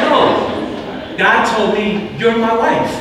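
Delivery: high, loud, urgent insistence; eager insistence. Retold or imitated. Pastor retelling how he told his friend she was his wife, eager and loud. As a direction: push it like you can't hold it in.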